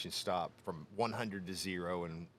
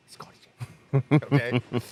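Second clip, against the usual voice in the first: much louder and slow, sing it out; drawn-out jeer; 4 semitones higher, 13 dB louder, much slower than usual. Retold or imitated. Onlookers jeer at the handcuffed man, loud and drawn out. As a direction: taunt him from across the lot.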